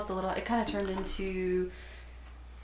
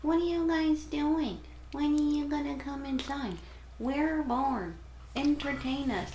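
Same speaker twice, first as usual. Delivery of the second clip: put-on higher whiny child voice; whiny kids; 6 semitones higher than usual. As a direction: nag like a bored kid. Voicing the nosy kids.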